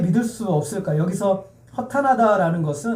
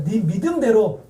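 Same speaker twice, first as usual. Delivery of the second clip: declaimed phrase for the congregation to echo; lead for repetition; 2 semitones higher, slower than usual. Shown as a demonstration. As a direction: proclaim it, then leave room for response. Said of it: "따라하겠습니다".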